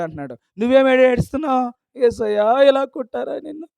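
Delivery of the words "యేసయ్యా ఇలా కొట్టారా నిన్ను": loud, high mock lament; mock crying. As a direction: mimic a believer wailing for Jesus. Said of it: "ఏడుస్తున్నావు నువ్వు". (ఏడుపును వెక్కిరిస్తూ గట్టిగా అనుకరణ)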